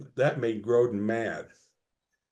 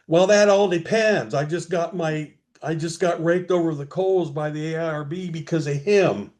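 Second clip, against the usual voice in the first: retold angry outburst; 3 semitones higher than usual. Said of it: "he starts bawling me out again".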